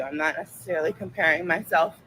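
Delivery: ordinary talk, nothing marked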